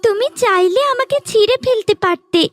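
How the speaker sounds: a magic flower begging to be spared; talking flower tree. Acted.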